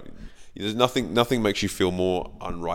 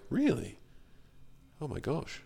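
mock shocked disbelief; 9 semitones higher, 6 dB quieter than usual. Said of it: "you're just like".

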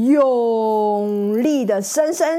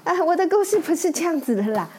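little pig voice; 4 semitones higher, faster than usual. Acted. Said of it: "它说".

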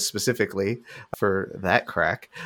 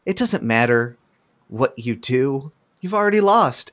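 put-on taunting teen; 3 semitones higher, 3 dB louder than usual. Mean teens taunting the heroes.

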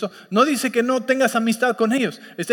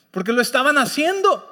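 laughing emphasis; 6 semitones higher than usual. Shown as a demonstration. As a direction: laugh as you drive the point home.

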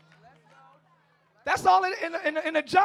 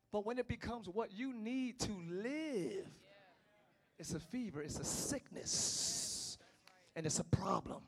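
softer, slowing down; grave and quiet; 9 dB quieter, slower than usual. Real, not acted. Preacher warning the women quietly.

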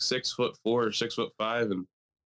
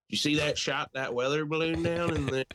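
higher-pitched put-on yokel accent; exaggerated country accent, pitched up; mock local accent; 5 semitones higher than usual. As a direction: imitate club regulars in a hick accent. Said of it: "I don't know why they have that accent".

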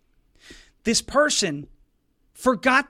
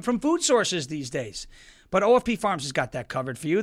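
ad read; 2 semitones lower than usual. Acted. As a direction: read it as a smooth sponsor ad. Sponsor ad read.

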